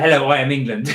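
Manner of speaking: laughing loudly through the mistake; laughing translation. Retold or imitated. Laughing at his own French mistake, translating it. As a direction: giggle out the blunder. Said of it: "Which is".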